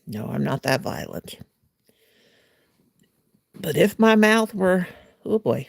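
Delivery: usual speaking voice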